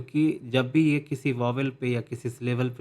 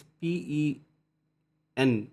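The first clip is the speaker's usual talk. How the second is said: पी ई spelled slowly, letter by letter; slow spelling; 3 semitones higher, much slower than usual. Shown as a demonstration. Teacher spelling out a syllable for students. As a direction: drag out each letter. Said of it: "पेन वाला जो ई है इस पे बहुत ज़्यादा stress दिया है".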